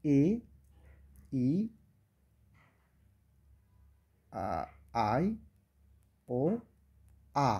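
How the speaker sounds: each vowel sound said alone, slowly, with long pauses; teacher listing vowel sounds for students; vowel sounds demo. Shown as a demonstration. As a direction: sound out এ, ই, আ, আই, ও, আ one by one. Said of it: "ভাওয়াল সাউন্ডগুলো আমরা পাই এরকম".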